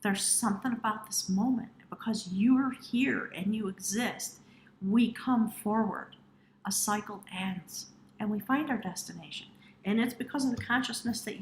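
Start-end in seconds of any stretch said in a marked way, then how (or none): 1.9-6.1 slow, hushed and tender; slow whisper. Real, not acted. Reader reassuring Pisces viewers, slow hushed whisper. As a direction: whisper it slowly, like a secret blessing.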